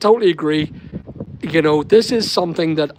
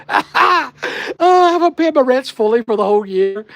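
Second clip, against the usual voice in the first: high, loud mock whine of a man caught out; mock whining voice; 10 semitones higher, 5 dB louder than usual. Mocking the man arrested for unpaid rates, in a high loud mock whine. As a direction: whine it, much higher and louder, like you're caught.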